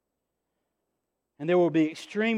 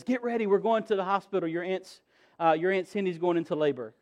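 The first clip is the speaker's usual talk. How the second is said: 1 mom, hurried; 4 dB quieter than usual. Retold or imitated.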